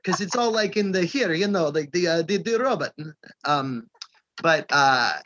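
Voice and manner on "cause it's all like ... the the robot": lightly put-on Brooklyn Jewish voice; a hint of an old New York Jewish dad; mild mock Jewish New York accent; Jewish dialect. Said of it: "that Jewish dialect in him".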